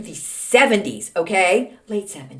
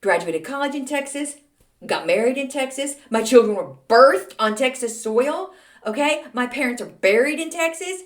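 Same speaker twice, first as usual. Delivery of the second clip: higher-pitched, indignant list of proofs; upset; 4 semitones higher than usual. Retold or imitated. Texan answering a commenter, hurt and indignant. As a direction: defend yourself with wounded mock indignation. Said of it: "I was upset".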